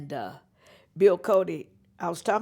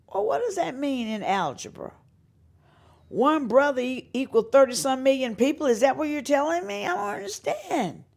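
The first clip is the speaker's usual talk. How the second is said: raised, louder incredulous sarcasm; mock the logic, pitched up; sarcastic retort; 7 semitones higher, 4 dB louder than usual. Singer mocking label executives' logic, raised sarcastic voice.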